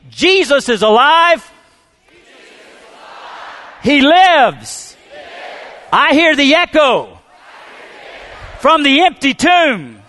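loud, high, slow full-force shouting; preaching shout. Real, not acted. Preacher leading the church to shout, full-force preaching. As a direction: lead the congregation in a shout of joy. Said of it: "shout after me".

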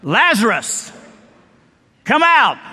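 commanding preacher's yell. Acted. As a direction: call out the name, pause, then shout the order. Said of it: "yelled out".

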